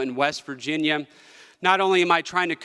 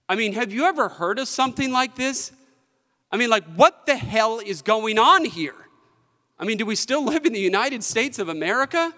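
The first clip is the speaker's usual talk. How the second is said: rising, higher-pitched disbelief; emotional outburst; 6 semitones higher than usual. Real, not acted. Treasurer pleading for West Virginia, emotional rising outrage. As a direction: let the outrage build as each question comes. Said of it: "sorry to get so emotional about this".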